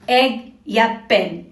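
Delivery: एग and पेन with a short "eh" vowel; short E sound. Shown as a demonstration. Teacher showing pupils the short E sound, "eh" in एग and पेन. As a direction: say एग, पेन with the E kept as "eh". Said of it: "ए स्वर जैसी आवाज निकालता है".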